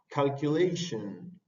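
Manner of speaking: "Calculation" slow with a barely said short e; slow model word. Shown as a demonstration. Teacher showing the short e, slow "Calculation". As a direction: drag out "Calculation", swallow the last e. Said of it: "Esa E al revés es una E corta".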